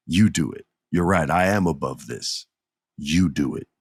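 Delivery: lightly voiced scheming champion; coaxing Roman. Roman pushing Sami to swing the chair, low sly coaxing.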